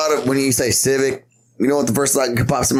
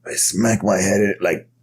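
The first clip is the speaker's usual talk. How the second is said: ancient master; 3 semitones lower than usual. Acted. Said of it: "fucking eighty years old".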